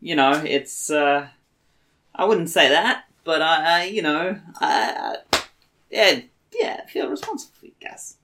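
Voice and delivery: hesitant, lightly put-on Boston accent; in-character attempt at Boston accent; terrible Bostonian accent. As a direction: stumble along in a rough Bostonian. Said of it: "this terrible Bostonian accent".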